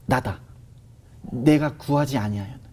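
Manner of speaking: a hint of a low, quiet divine voice; voice of God. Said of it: "누군가가 말하는 것 같은 느낌이 들면서". (마음속에 들린 하나님의 목소리를 조용히 낮게 흉내)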